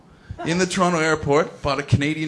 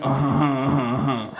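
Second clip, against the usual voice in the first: nod along like a dim sidekick; cronies agreeing. Retold or imitated. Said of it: "his little cronies went".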